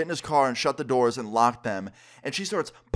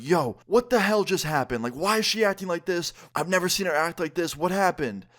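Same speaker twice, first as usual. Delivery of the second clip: higher-pitched imitation of a stunned friend; bewildered disbelief; 6 semitones higher than usual. Friend in the getaway car asks why, bewildered. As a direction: retell it baffled, demanding an explanation.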